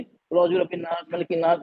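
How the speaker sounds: कुल औज़ु बिरब्बिन नास, मलिकिन नास rushed through with short vowels; lifeless recitation without Tajweed. Shown as a demonstration. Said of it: "इसमें कोई दम नहीं होगा".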